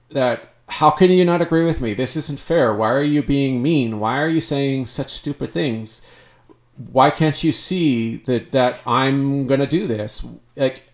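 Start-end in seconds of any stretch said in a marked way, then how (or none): 0.7-10.2 lightly imitated indignant child, rushed at the start; defensive child part. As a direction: mildly protest like a wronged kid. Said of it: "they're gonna be defensive and they're gonna be ridiculous".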